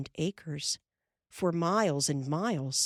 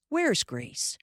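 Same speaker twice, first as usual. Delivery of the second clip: raised call across the yard; 7 semitones higher than usual. A narrator's reading. Pa calls to Ma across the yard, calling out. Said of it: "he called to Ma".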